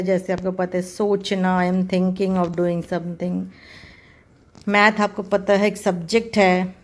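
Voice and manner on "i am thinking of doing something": slow, careful example sentence. Shown as a demonstration. Teacher modelling think in a sentence, slowly. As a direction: say each word deliberately. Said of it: "थिंक होता है".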